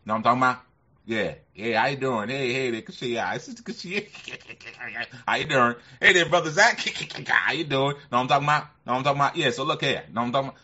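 loud, high hype greeting voice; Brother Lowe impression. Mimicking Brother Lowe greeting the chat, loud and high. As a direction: boom out the catchphrase like a hype man. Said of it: "Brother Lowe may say".

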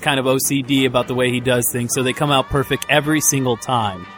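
upbeat sponsor plug; ad read. Acted. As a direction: sell it cheerfully.

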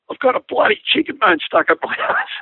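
pained, high-pitched mock yell; retold screaming. Injured man telling pilot his injury, mock screaming. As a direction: imitate a screaming patient at storytelling volume. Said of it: "He's screaming, and, and, and I go".

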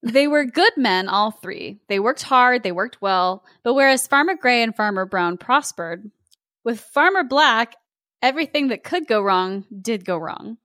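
measured storybook narration; story narration. A narrator's reading. Host reads a Scottish tale to co-host, story narration. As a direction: read it as a classic tale.

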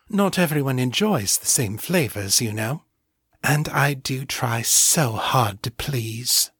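lightly put-on sultry voice, slowing at the end; seductive Morgan voice. Incubus flirts in Morgan's shape.

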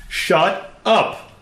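high, loud shout of shut up. Acted. Girl shouts shut up at her absent brother, full loud yell. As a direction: let it fly full out. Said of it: "say that even louder".

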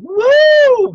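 very high, loud sustained "woo"; excited whoop. Retold or imitated. Singer celebrating the exploded glass, with an excited high whoop. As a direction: let out a piercing, elated whoop. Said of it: "I was so excited".

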